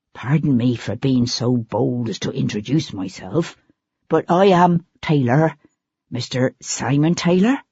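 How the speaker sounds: unsure, questioning inflection. Acted. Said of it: "brought the inflection of his voice up at the end".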